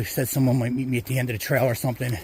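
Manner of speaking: winded, catching breath mid-sentence; talking while still breathless. Real, not acted. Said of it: "sorry, I'm out of breath".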